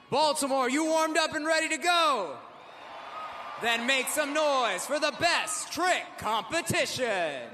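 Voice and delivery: arena hype shout. Real, not acted. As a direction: pump up the whole arena. Announcer firing up the arena.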